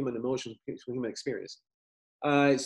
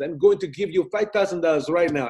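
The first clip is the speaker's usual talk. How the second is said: put-on Italian accent; 3 semitones higher, 3 dB louder than usual. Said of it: "in his Italian accent".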